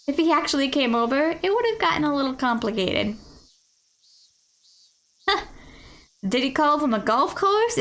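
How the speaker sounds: smug technician. Acted. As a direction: gloat about beating the office worker. Technician gloats about the marshal.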